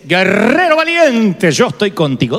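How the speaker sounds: slow, weighty address; solemn calling. Retold or imitated. God slowly naming the frightened Gedeón a warrior. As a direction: call him out slowly and firmly. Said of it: "Dios le dice".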